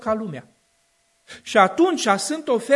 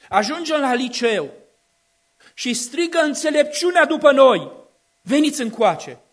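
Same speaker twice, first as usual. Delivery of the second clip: building, louder preacher's cry; rising preaching; 4 semitones higher, 5 dB louder than usual. Acted. Preacher warning the congregation about youth, loud build. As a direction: drive the repetition home with force. Preaching climax, repeated calls.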